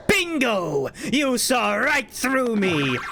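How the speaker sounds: slow, gloating mock villain; hammed-up evil reveal; gleeful villain voice. Jack gleefully teasing.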